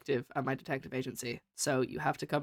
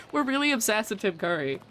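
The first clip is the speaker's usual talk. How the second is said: ordinary talk, nothing marked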